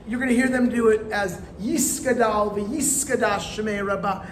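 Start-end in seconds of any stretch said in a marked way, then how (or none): 1.6-4.2 Yiskadal v'Yiskadash with an S sound for the T; Ashkenazi S sound. Shown as a demonstration. Hebrew teacher showing the Ashkenazi Kaddish, S sound for T. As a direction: say Yiskadal v'Yiskadash with S where the T would be. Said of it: "They're gonna do that T sound as an S sound".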